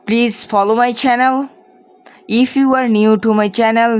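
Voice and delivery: slow YouTube sign-off to subscribers; vlog outro. Acted. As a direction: read the outro slowly and clearly. Channel outro read in English.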